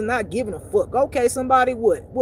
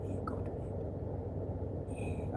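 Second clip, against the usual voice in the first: whispering devil; 15 dB quieter, much slower than usual. Retold or imitated.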